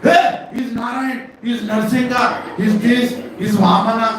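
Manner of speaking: high, slow-starting calling shout; Balram. Acted. Yashoda overhears the brother proclaiming Krishna's names, drawn-out shout. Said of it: "the voice of Balram when he shouts".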